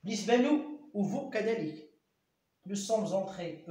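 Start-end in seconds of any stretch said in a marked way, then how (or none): 2.7-3.7 slow dictation. Shown as a demonstration. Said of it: "أو أكسون إس".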